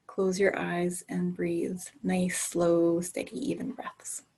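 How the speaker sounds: slow hushed whisper, breathing with it. Shown as a demonstration. Teacher shows calm breathing, whispered.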